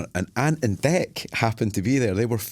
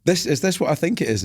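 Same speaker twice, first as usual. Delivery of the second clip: higher and louder, half-hammed excited realisation; retold excitement; 8 semitones higher, 5 dB louder than usual. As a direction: play the penny dropping with glee. Realising the band is reuniting.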